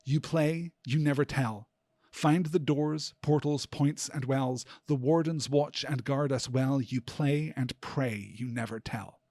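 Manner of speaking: measured, deliberate verse reading; quoted poem with weighty pauses; poem recitation. Acted. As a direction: recite it slowly, phrase by phrase. Reads the poem aloud as quotation.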